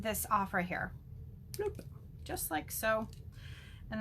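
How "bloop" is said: short popped bloop; little sound effect for a snip; quick bloop as it drops away; bloop noise. Real, not acted.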